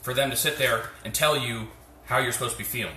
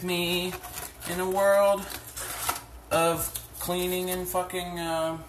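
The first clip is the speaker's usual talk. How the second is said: slow, higher dramatic announcer; movie trailer voice; 6 semitones higher, slower than usual. Pretend. Mock announcement of chores.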